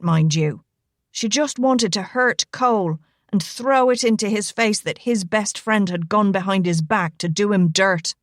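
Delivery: lightly voiced Irish gentleman, indignant and earnest; a big Irishman pouring out his grievance; Irishman's account. Rigo confiding to Elena about Roberta, lightly voiced and earnest.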